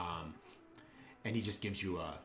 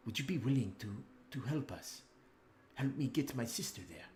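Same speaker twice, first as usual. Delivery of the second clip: a lightly voiced noble, a bit higher and earnest; Ismark pleading; 4 semitones higher than usual. Ismark asks the party to escort his sister, lightly voiced earnest plea. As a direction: ask the heroes for help, worried.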